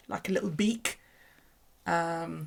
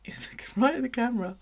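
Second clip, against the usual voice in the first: whisper; 6 semitones higher than usual. Real, not acted. Whispering about snake on camera.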